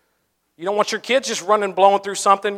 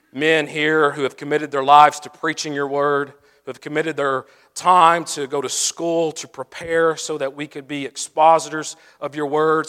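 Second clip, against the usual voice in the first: closing prayer. Acted. Closing prayer over the men.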